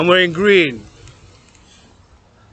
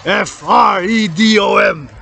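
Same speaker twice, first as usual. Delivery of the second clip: each letter set apart, deliberate; spelling out freedom slowly; spelled out slowly; 2 semitones higher, slower than usual. Shown as a demonstration. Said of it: "this thing called freedom".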